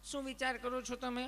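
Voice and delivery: sugary nurse asking gently; sweet nurse. Retold or imitated. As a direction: ask kindly like a caring nurse. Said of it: "તમે કેટલું પ્રેમથી પૂછો છો".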